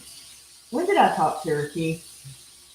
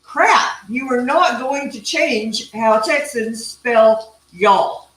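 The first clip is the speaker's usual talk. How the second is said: playful outburst at Google, louder; mock frustration; 4 semitones higher, 4 dB louder, slower than usual. Real, not acted. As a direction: rant with fake fury. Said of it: "I get so frustrated".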